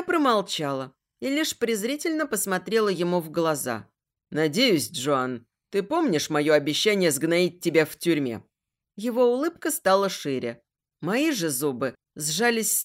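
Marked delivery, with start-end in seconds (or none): 4.3-8.4 gloating villain. Acted. Villain gloats over prisoner.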